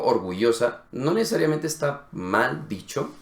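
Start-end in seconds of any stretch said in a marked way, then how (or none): 0.0-0.8 orgullosa with the ll as a vowel I; imitated I for Y. Teacher cites the actress's word, imitated I for Y. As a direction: copy her orgullosa, or-goo-ee-oh-sa. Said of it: "dijo orgullosa".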